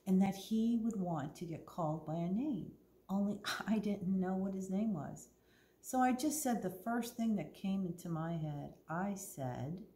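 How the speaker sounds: clear, lively storytime reading voice; story narration. A narrator's reading. Librarian reads Winn-Dixie to the kids, storytelling. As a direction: read the story to the children.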